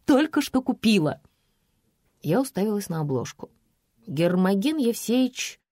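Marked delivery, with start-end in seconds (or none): 0.1-1.2 high, gushing fan voice. Acted. Fan aunt begging the writer for an autograph, high and gushing. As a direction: coo like an overeager admirer.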